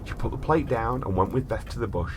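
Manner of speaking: measured storyteller reading; story narration. A narrator's reading. Host reads a strange case to his brother in storyteller voice.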